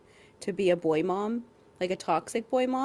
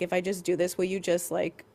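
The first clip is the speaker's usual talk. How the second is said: monotone; 3 semitones lower than usual. Retold or imitated. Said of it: "a monotone voice".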